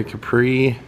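Capri as kuh-PREE, stress on the second syllable; Capri ending on a stressed "pree"; American car pronunciation. Shown as a demonstration. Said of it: "I think they call it a Capri".

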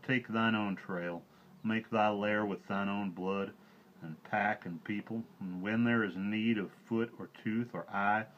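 a lightly voiced wise old bear, grumbling; elder bear scolding the pack; old bear Baloo. A narrator's reading. Baloo's farewell speech.

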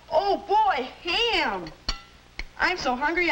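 excited. Acted. Hungry boy spots the ham.

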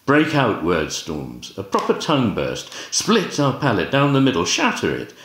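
emphatic, declamatory poetry reading; poem recitation. Acted. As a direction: recite it as verse, with swinging pitch and measured phrases. Reads a poem aloud.

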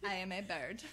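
mock-solemn poetry reading in French accent; dramatic French accent. Shown as a demonstration. Reading fifth-grade bird poetry, hammed-up French accent. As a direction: recite it theatrically with a French accent. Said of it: "very dramatically in my French accent".

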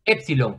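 "Epsilon" said as ÉPsilon, stress on the E; stress on first syllable. Shown as a demonstration. Teacher correcting a student's reading, "Epsilon" stressed on the E. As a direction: put the weight on the E of "Epsilon". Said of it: "porque esta tilde está en la E".

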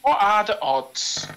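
slow British-accented question. Real, not acted. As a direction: slip into a British accent, drawn out. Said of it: "Why am I going more British?".

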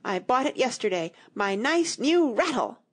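indignant protest, pitch climbing to the end; a restrained scream, rising and stretched on the last words; mild rising scream. Acted. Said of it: "his voice rose to a perfect scream".

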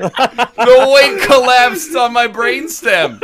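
loud, slow, wailing complaint; hammed-up cry of pain; mock-agonized yell. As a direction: wail it out, dragging the words. Acting crushed in the game.

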